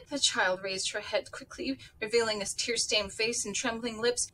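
lively read-aloud with character voices; audiobook-style storytelling; story narration. A narrator's reading. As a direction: read the novel to listeners, voicing each figure. Reads novel aloud with voices.

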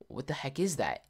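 whispered, puzzled reaction; hushed confusion. Retold or imitated. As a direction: imitate spooked friends whispering. Friends nervously react to music.

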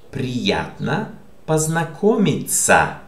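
Приятно познакомиться said carefully, each word set apart with a pause; careful teacher's model of Приятно познакомиться; pronunciation model. Shown as a demonstration. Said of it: "How do you pronounce this?".

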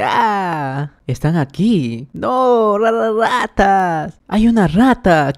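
high, panicked shriek about rats; panicked scream. Acted. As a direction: stammer with fright at the rats. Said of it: "grita bien fuerte".

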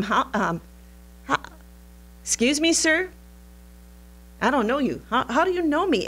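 high, puzzled questions; taken aback, asking how; astonished. Acted. Nathanael amazed Jesus knows him.

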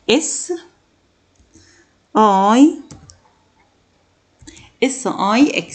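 "S I X" with long pauses between letters; spelled letter by letter. Shown as a demonstration. Teacher spelling six for the class, letter by letter. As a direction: spell it out slowly, one letter at a time. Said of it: "spelling the word out".

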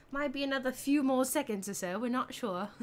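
light put-on British accent; amateur British accent. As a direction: carry on in mock British. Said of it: "Did I keep it up for a full minute".

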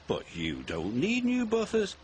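high-pitched sibling taunt; teasing. A narrator's reading. Ben taunts Bill over the buffers, teasing. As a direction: needle your twin playfully. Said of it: "Ben teased".

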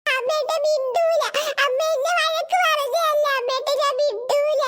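put-on slow childish whining; tearful sulking. Scolded child refusing to talk to mother, tearful. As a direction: whine it out, drawing out the endings. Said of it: "കരയണ്ട".

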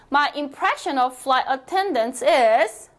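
slow, clear model sentence for repeating; teacher reading aloud slowly for practice. Shown as a demonstration. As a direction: read it slowly so students can follow. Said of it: "소리 크게 내어볼게요".

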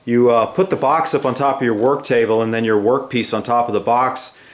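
ordinary talk

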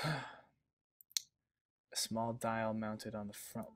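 very slow, sighing repeat; baffled, drawn-out reread; slow puzzled reread. Real, not acted. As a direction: drag each word out in confusion.

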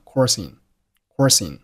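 "coursing" as "course in" run together; linked words. Shown as a demonstration. Teacher demonstrating linking for learners, "course in" linked. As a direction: carry the s of "course" into "in". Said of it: "course和in连读成了".

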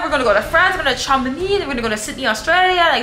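put-on high, whiny wounded-boyfriend voice; hurt boyfriend. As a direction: whine it like a jilted rich man. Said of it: "He's so hurt".

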